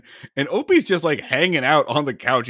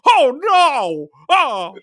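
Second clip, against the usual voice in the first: high, loud hammed-up gasp of dismay; mock horror; 10 semitones higher, 5 dB louder, much slower than usual. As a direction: play the horror way over the top. Mock horror at librarian fate.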